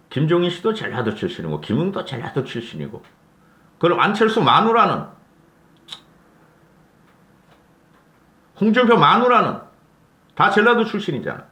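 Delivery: loud, high, scoffing retort; high-pitched indignant rant at rumor spreaders; indignant outburst. Real, not acted. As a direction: shout down the rumor in disbelief. Angry rebuttal of rumor.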